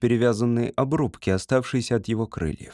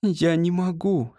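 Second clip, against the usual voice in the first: pained; 6 semitones higher, slower than usual. A narrator's reading. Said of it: "с болью сказала Рут".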